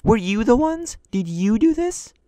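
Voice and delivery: loud, stern interrogation; stern questioning. Retold or imitated. Instructor grilling the students, loud stern questions. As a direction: press them for the truth, loud.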